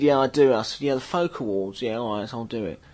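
put-on transatlantic accent. The singer telling his own anecdote on stage, mock transatlantic accent. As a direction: lightly imitate a rambling transatlantic rocker. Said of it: "should I do the whole thing in that voice?".

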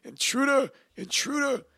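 mild mock alarm cry; half-hearted imitation of a yelled warning; retold yell. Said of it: "ran out the door yelling".

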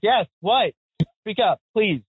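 impatient retort. Retold or imitated. Acted impatient reply to French listeners.

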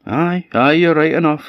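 high-pitched, ready "aye, aye"; agreeing husband. Acted. Husband agrees to make up goat's bed, high and compliant.

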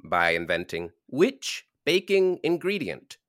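put-on transatlantic accent with rolled R's; rolling every R grandly. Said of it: "Roll the R's".

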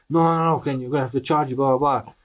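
模仿司机的激动抗议; mock driver protest. Driver voiced in quarrel.

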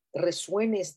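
resuenes stretched long and slow, each syllable held; drawn out slowly. Shown as a demonstration. Guiding her viewers, she stretches resuenes slowly. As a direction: let resuenes hang in the air. Repeats the key word slowly.

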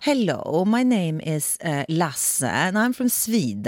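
light mock Swedish accent in English; lightly imitating a Swede introducing himself in English. Imitating a Swedish speaker's English for a podcast friend, light Swedish accent. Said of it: "they talk English like this".

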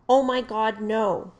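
loud, panicked cry, read from a report; a startled suspect shrieking in fright; retold scream. Suspect caught in a flashlight beam, frightened loud cry. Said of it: "The suspect screamed at this time".

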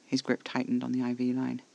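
ordinary delivery, nothing marked

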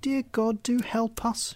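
put-on a high little girl begging God; girl crying out. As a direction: pray in desperation as a small girl. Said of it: "she cried".

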